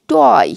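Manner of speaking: টয় drawn out with an "oi" glide; demonstrated pronunciation. Shown as a demonstration. Teacher showing syllable-final "oy", টয় modelled slowly. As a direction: stretch the "oy" in টয় for learners. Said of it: "উচ্চারণটা হবে এইরকম".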